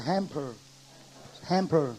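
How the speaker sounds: 햄퍼 said slowly and clearly for students to repeat; teacher drilling a word. Shown as a demonstration. Teacher models a word for students: clear drill. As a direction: model 햄퍼 for the class to echo. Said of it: "한번 따라합시다".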